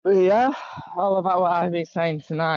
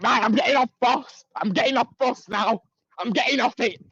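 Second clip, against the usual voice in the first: retold agitated outburst; 5 semitones higher than usual. Guest imitating a man demanding off the bus, agitated. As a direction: imitate someone insisting on getting out now.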